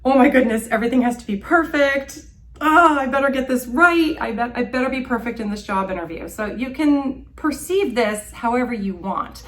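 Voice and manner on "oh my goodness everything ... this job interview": high, louder mock-panicked rush; spanikowana perfekcjonistka. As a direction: act out a flustered job candidate, hurrying toward the end. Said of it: "the one in the middle looks like".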